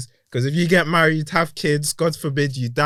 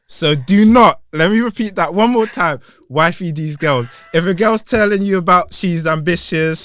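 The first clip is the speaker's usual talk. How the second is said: playful street advice voice; mock love guru. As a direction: lecture the mandem like a roadman guru. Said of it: "let me speak to the mandem quickly".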